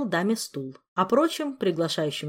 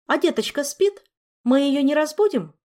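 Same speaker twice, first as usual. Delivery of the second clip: worried; 8 semitones higher, 5 dB louder than usual. Acted. Worried about waking the baby.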